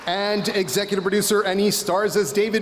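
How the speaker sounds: pro wrestler announcer voice. Acted. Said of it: "I'm loving my pro wrestler announcer voice".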